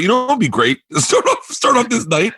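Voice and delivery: giddy, high eager plan; bursting with a naive big idea; excited. Retold or imitated. Young barker to himself, giddy and high-pitched.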